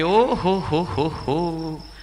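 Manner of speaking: hearty put-on ha ha ha, fading away; mock laughter. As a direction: laugh it off, dying out at the end. Mock laughing reply of deaf man.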